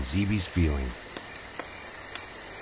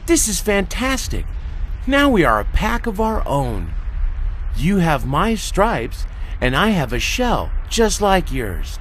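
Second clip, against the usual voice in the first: much higher, louder, joyful; delighted tiger; 11 semitones higher, 4 dB louder than usual. Acted. Tigus celebrating their new pack, delighted. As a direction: cheer over the new pack. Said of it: "Tigus said".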